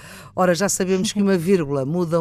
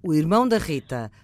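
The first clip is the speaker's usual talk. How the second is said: dictating; 3 semitones lower than usual. Shown as a demonstration. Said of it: "vamos lá ainda ao irmão da Rita".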